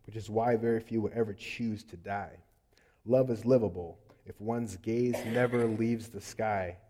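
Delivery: performing a poem from the pulpit; spoken-word poem. Acted. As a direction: deliver it like a spoken-word piece. Recites his integrity poem.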